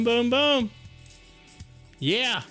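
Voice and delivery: ordinary talk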